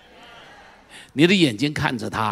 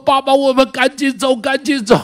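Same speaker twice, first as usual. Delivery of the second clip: put-on trembling child pleading; 10 semitones higher, 8 dB louder than usual. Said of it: "浑身发抖".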